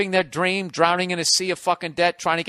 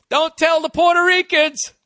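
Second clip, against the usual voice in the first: mock conspiratorial aside; 9 semitones higher, 4 dB louder than usual. Rich guy whispering aside joke.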